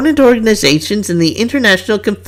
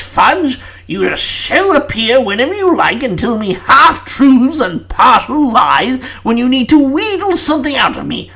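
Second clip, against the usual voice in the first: seething; 4 semitones higher than usual. Acted. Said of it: "Prime Minister began to seethe".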